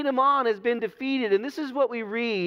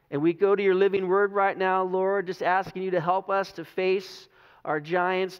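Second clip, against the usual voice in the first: prayer; 3 semitones lower than usual. Real, not acted. Pastor leads opening prayer.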